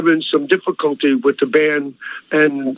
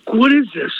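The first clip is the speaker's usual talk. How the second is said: higher, retold bewildered question; mock astonishment at the scene; a touch of disbelief, pitched up; mild amazement; 5 semitones higher than usual. Repeats his amazement at the crowd.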